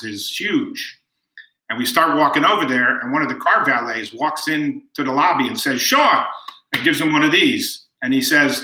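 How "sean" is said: high, imitated hail; retold call. Valet greeting the boy in the lobby, high mock call. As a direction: sing out the name in a higher voice.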